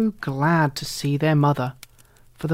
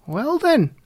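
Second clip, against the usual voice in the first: little red hen; 9 semitones higher, 3 dB louder than usual. A narrator's reading. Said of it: "said the little red hen".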